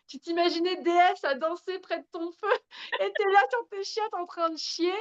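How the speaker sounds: high, giggly self-mockery through laughter; laughing at herself. Mocking herself on the toilet, laughing hard. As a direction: laugh at yourself mid-sentence. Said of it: "j'étais même pétée de rire".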